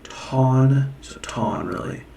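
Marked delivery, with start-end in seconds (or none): 0.0-0.9 "Ton" with the vowel of "ought". Shown as a demonstration. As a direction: say "Ton" with a drawn-out aw sound. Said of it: "Aw, from ought".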